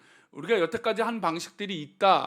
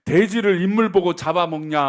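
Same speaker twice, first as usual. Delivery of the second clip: Chungcheong mom; 7 dB louder than usual. Retold or imitated. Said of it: "충청도 엄마가 뭐라고 하는지".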